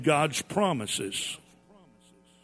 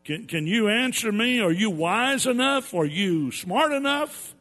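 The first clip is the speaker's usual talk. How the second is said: booming, raised voice of God questioning Job; the Lord challenging Job from on high; 4 semitones higher than usual. Retold or imitated. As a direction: demand answers like a mighty Lord. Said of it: "he says".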